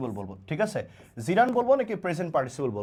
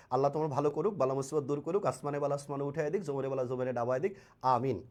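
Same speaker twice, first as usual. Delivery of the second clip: low, soft prayer for someone; murmured dua in a lowered pitch; recited blessing; 5 semitones lower, 6 dB quieter than usual. Real, not acted. Teacher blesses an active student, low prayerful recital.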